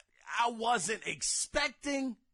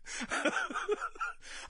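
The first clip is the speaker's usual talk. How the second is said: high, voiceless sobbing laugh; mock crying; 11 semitones higher, 4 dB quieter than usual. Fan watching a disappointing conference, mock crying. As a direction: let out a wheezy pretend sob. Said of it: "I'm crying at this point".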